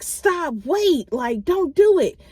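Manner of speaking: high, loud nagging "stop, wait"; imitating a yelling mother, pitched high; mock yelling. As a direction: parody her frantic orders. Mimicking mom's yelling.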